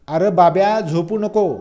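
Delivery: loud scolding call to her son; mother yelling. Retold or imitated. Mother yelling at sleeping son to wake up, a mild mock yell. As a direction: shout him awake like a village mother. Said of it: "त्यांच्यावर खेकसते आणि बोंबलते, म्हणजे ओरडते".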